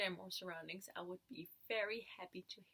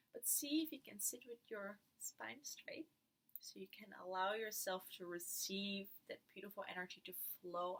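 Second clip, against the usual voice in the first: guided meditation. Acted. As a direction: lead them gently into stillness.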